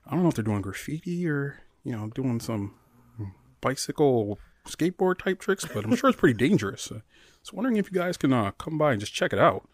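polite phone voice; business voice. Retold or imitated. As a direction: put on a professional work voice. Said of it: "I put on my business voice, my work voice".

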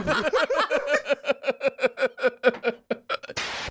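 high extended laugh; long laughing. Real, not acted.

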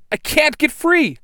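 very high, loud straining cry; struggling against restraints. Acted. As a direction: cry out while pinned. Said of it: "the Blue Ranger yells".

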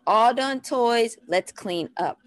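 lightly rhythmic parent cue; evenly beaten toddler instruction; rhythmic toddler talk. Shown as a demonstration. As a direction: give the phrase a little bounce. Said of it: "Get a little rhythmic with the way you talk".

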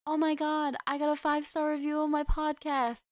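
jumping-up-and-down excitement; ecstatic squeal. Retold or imitated. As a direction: burst out in disbelieving joy. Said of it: "started jumping up and down going".

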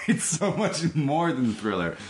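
slow, laughing echo of the line; laughing mimicry. Real, not acted. Mocking her co-host's defence of an album, laughing. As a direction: tease him back through a laugh.

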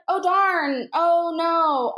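mild, token dismay; vanilla underreaction. Retold or imitated. Therapist playing along with a prank, bland dismay. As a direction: feign concern without really trying. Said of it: "as vanilla as possible".

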